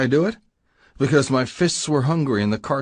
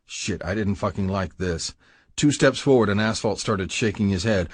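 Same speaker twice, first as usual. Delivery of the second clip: ordinary delivery, nothing marked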